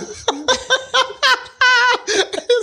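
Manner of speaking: squealing high laugh; high giggle fit. Real, not acted. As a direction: burst into helpless giggles. Giggling fit during game.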